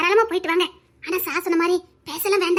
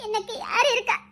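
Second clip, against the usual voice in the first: sobbing, falling on யார்; crying. Acted. Weeping girl asks who she has, sobbing, stressing யார். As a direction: stress யார் as she sobs, the voice dropping at the end.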